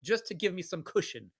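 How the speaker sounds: a hint of a scheming landlord; imagined landlord. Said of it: "He's gonna say".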